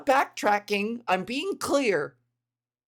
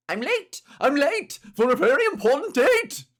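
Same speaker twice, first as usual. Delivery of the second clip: high, loud frantic rabbit voice; White Rabbit; 6 semitones higher, 6 dB louder than usual. Acted. Dodging a gunman by playing a rabbit, frantic high character voice. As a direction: squeal it like a panicked cartoon rabbit. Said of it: "the rabbit from Alice in Wonderland".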